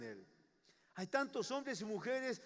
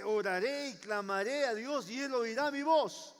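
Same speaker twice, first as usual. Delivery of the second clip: firm, lightly raised quote of King David; confident declaration. Acted. Preacher quoting the king's prayer, with confidence. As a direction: state it as a settled certainty. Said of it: "Miren con la confianza que él hablaba".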